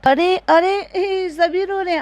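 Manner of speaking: high, startled "अरे, अरे" as if shocked; mock alarm. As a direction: play up the surprise at everyone crying. Mock alarm at everyone crying. (नकली हैरानी से ऊँची आवाज़ में)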